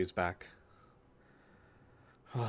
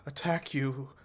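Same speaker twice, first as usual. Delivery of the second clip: higher, stammering worry; shaken concern; 5 semitones higher than usual. Acted. Companion who saw her attacked, stammering and shaken. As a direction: stumble over it, pitched up with worry.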